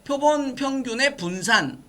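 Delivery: deliberate read-along delivery; read-aloud model. Shown as a demonstration. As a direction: recite it slowly for the class to follow. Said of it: "얘는 뭐라고 읽으라고".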